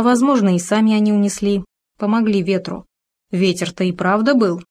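plain reading voice

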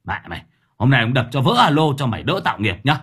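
fast, harsh menacing rant; angry threat. Acted. Thưởng Báo threatens the jeering neighbour, fast angry rant. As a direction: threaten her through clenched teeth. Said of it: "Gã nghiến răng".

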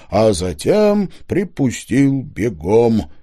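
ordinary delivery

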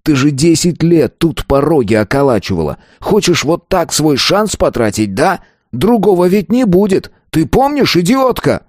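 exploding rant. A narrator's reading. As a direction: berate her, rising in disbelief. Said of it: "взорвался он".

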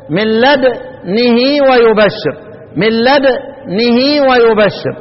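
slow recitation of "من لدنه ويبشر" with the nun held silent; teacher models the right reading, slowly; Quranic recitation. Shown as a demonstration. Teacher repeating the correct reading for the class, slow and chanted. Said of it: "لا، أهي".

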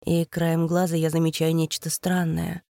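plain reading voice

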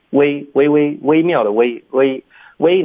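"微" said high with the jaw barely moving; mock student error. Teacher mimicking students' wait, narrow closed-jaw "微". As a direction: imitate students saying "微" narrow, mouth nearly shut. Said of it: "很多的学生喜欢发微".

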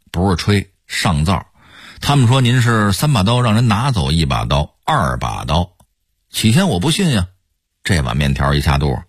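put-on chatty old-Beijing banter with rolled r endings; pure Beijing accent. Shown as a demonstration. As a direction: talk like a Beijing local joshing a buddy. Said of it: "这是纯正的京腔儿".

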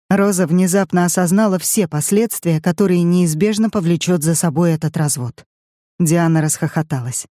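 ordinary delivery

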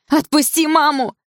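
high, loud, slow desperate scream. A narrator's reading. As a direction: scream at him to let go. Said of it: "закричала я".

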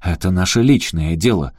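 вспыльчиво, громче; вспылить на чужака; взвился. Acted. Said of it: "взвился Эрик". (Эрик взвивается на управляющего)

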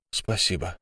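soft thanks on an exhale; exhaled relief; breathed out. Acted. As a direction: let the word go on a breath. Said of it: "выдохнул я".

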